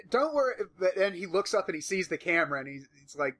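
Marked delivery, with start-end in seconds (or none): 0.1-0.5 Steve Irwin impression. Imitating Irwin after bite.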